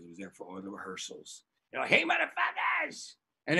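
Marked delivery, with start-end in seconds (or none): 1.9-3.1 drawn-out, high-pitched mock shout; stretched-out imitation of yelling from afar; rowdy called-out greeting. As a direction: holler it like a rowdy heckler. Acted rowdy greeting from balcony.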